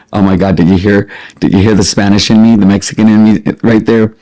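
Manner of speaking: ordinary talk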